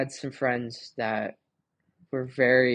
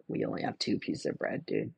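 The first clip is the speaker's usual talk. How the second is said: mock clueless self; 2 semitones lower, 5 dB quieter than usual. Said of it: "this would probably be me".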